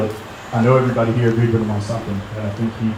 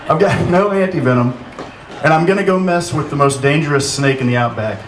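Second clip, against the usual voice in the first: badly faked Australian accent; 3 semitones higher than usual. Retrying a friend's joke line in a poor Australian accent. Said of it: "I can't do an Australian accent".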